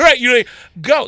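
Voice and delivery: high, laughing mock urging; laughing quote. Laughing with co-host about shoppers, mock urging.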